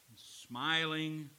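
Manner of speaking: usual speaking voice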